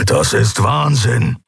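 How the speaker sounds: slow, heavy growl of protest. Acted. Keru protests to the Shayang pilot, growling. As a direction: growl it slowly at the captain. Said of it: "grollte Keru die Shayang an".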